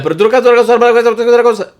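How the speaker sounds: high loud mock Dominican rant; fast-talking Dominican. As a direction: imitate locals talking over you. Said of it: "Dominicans, uh, argue fast".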